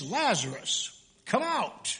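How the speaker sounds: calling out, rising high on out; Jesus calling Lazarus from the tomb, mild loud call; loud command. Acted. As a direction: summon him from the tomb, ringing out. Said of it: "he cried out in a loud voice".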